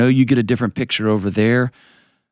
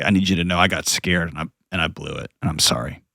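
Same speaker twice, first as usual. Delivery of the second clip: softer, voice catching on sorry; choked up; 3 semitones lower, 4 dB quieter than usual. Real, not acted. Father imagining apologizing to daughter, choked up. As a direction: let the apology choke in the throat. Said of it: "gonna get all choked up".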